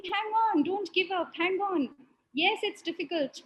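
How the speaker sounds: mildly charged-up pep talk. Retold or imitated. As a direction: urge them on, relaying his excitement. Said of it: "He's too charged up".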